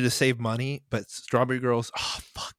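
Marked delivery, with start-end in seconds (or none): 2.0-2.5 hushed under-breath cursing; whispered curse. Real, not acted. Cursing under breath mid-story.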